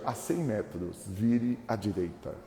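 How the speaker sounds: slow, even robotic direction read; default GPS voice. Retold or imitated. Pastor imitating the standard GPS voice giving a turn. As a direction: recite it like a navigation app. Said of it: "aquela vozinha padrão".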